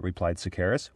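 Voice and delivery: usual speaking voice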